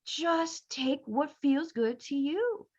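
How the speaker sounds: slow, soft, soothing quote of the authors; mildly serene guru voice; calm advice. Retold or imitated. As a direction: hand out gentle advice very slowly. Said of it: "So they said".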